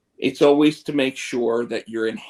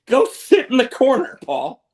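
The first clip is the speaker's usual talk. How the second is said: dismissive command; 5 dB louder than usual. Retold or imitated. Brock dismissing Paul.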